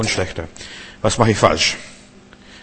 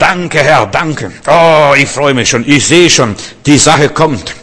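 higher and louder, bursting with happy thanks; preacher acting out a believer's overjoyed thanksgiving; joyful thanks; 3 semitones higher, 5 dB louder, slower than usual. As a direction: thank the Lord as if it has already come. Joyful thanks prayer acted out.

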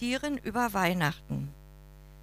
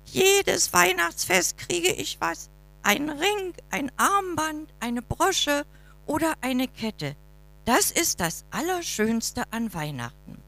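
much higher, boastful magpie voice; croaking magpie; 11 semitones higher than usual. Acted. Magpie bragging about her jewelry, much higher and chattering. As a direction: chatter high like a greedy magpie. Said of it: "krächzte die Elster".

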